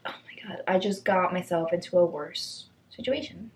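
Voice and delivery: whispered panic to herself; a self-mocking whisper. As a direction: hush it, realizing the mistake.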